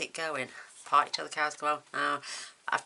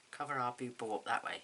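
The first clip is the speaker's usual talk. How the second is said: whispered; 8 dB quieter, faster than usual. Real, not acted. Covering a smudge with gems.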